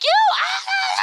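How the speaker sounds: high, strangled sputter at her husband; mock sputtering. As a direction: choke on the words, way up high.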